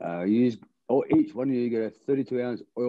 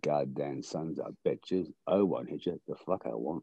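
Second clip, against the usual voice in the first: slow, low-key Australian take on a John Wayne drawl; a slow, quiet Australian accent with a light John Wayne swagger; Australian doing John Wayne; 5 semitones lower, 5 dB quieter than usual. Retold or imitated. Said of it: "Australian accent doing John Wayne".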